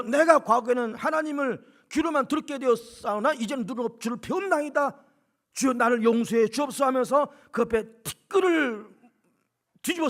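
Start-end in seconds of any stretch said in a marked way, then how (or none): 0.0-6.9 Job repenting. Retold or imitated. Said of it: "철저히 회개하면서".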